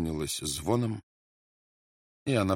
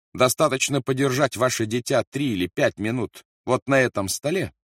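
loud, cold threat of a torturer; menacing threat; 5 semitones higher, 6 dB louder than usual. A narrator's reading. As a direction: threaten her, raising the voice. Rolf threatens to freeze baby. (громкая зловещая угроза)

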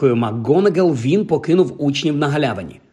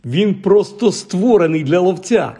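higher, louder burst of enthusiasm; excited praise; 6 semitones higher, 4 dB louder than usual. A narrator's reading. Wood praising Harry to the professor, excited. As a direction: praise a born player with excitement.

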